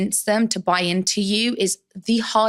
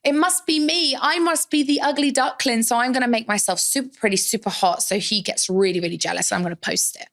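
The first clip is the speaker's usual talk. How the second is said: put-on higher, self-pitying young self; inner voice quote; 4 semitones higher than usual. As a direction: voice your insecure younger self. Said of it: "So I was like".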